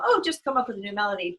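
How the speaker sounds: quick, breezy dismissive tone; mock flippant. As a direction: toss it off like it's nothing, fast. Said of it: "I know I'm just kinda being flippant".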